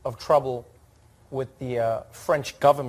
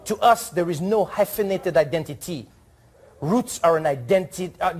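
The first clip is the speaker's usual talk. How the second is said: reading the ambassador's letter; 3 semitones higher than usual. Retold or imitated. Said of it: "read it how I hope he wrote it".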